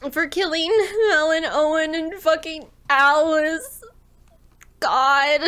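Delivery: choked, tearful voice. Real, not acted. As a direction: fight through tears. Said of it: "why I just started sobbing".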